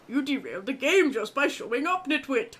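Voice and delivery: gruff Trapper scolding; odd character voice. Acted. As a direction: bark out the insult. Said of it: "What is this voice?".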